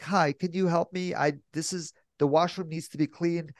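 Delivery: a hint of a shy child asking for help; like a young kid. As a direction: ask timidly like a small kid. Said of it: "like a young kid".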